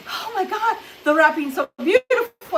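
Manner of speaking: high, bright gush over pretty wrapping. Retold or imitated. Gift recipient gushing over beautiful wrapping, excited and high. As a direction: gasp it out like a thrilled gift recipient.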